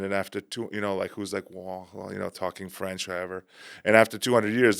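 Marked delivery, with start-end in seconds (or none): 1.5-3.4 put-on French accent. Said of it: "most hot French person".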